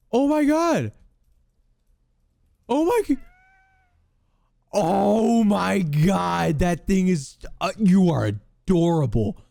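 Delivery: high squealing coo at a cute mob. Real, not acted. Gamer coos at the baby ghast in high baby talk. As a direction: gush over the tiny ghast in a high voice.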